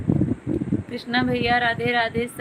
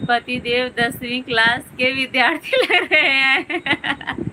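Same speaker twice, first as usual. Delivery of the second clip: laughing. Real, not acted. Teasing comment about husband's looks.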